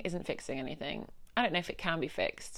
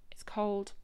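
whispered; 5 dB quieter than usual. Real, not acted. Moody in basement.

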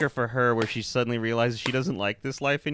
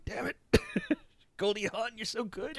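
laughing mock despair; 10 semitones higher, 6 dB quieter than usual. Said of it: "I'm just like".

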